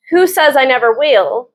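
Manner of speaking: lightly voiced love interest, mildly off; a first awkward try at his line; odd first reading. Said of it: "Why did I say it like that?".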